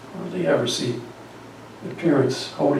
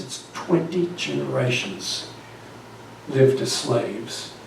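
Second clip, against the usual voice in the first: softer, slow and heavy on "twenty generations"; quiet weight; 8 dB quieter, slower than usual. Shown as a demonstration. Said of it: "repeats the figure for emphasis".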